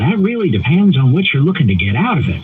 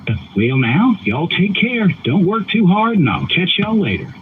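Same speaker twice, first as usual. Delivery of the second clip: a light Southern drawl on request. Shown as a demonstration. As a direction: say a lazy Southern goodbye. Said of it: "Say that in the Southern drawl".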